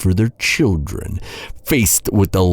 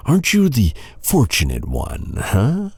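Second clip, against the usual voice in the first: mocking taunt; 7 semitones higher than usual. Taunting the captive heir.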